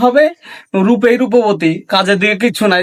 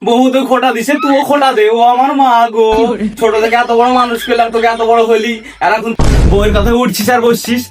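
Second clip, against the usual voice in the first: theatrical lament; 3 semitones higher than usual. Acted. Mother laments that son sides with his wife, wailing. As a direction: wail as the wronged mother.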